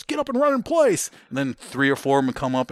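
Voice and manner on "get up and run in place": high, loud sergeant imitation; retold high-pitched command yell; yelled drill order. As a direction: shout the order far above your usual pitch.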